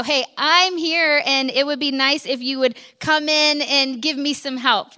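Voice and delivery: mock exasperated call for help; pointed complaint. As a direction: make sure the whole house hears you. Acting a fed-up mom wanting help.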